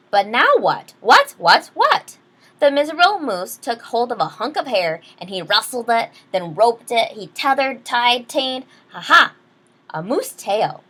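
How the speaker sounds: lively read-aloud storyteller; story narration. Acted. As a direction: read it like a bedtime picture book. Reads picture book aloud.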